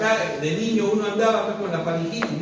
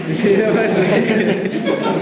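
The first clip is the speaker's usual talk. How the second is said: loud laugh; 2 semitones higher, 6 dB louder than usual. Real, not acted. Laughing as he recalls friends visiting, loud laugh. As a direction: laugh out loud, real amusement.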